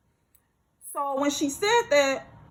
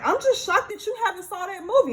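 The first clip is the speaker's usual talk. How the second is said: imitating her shock; 8 semitones higher than usual. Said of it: "seemed so flabbergasted and just so confused".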